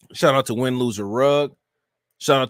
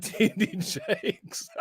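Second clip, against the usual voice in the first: high, soft, slow name in laughter; laughing through words; 7 semitones higher, 6 dB quieter, much slower than usual. Real, not acted. Streamer calling out the reverend, laughing helplessly. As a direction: squeeze the name out while laughing.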